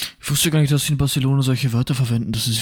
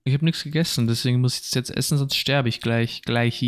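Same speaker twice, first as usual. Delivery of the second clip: chewing while talking. Real, not acted. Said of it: "Ich esse gerade ein Dextro Energy".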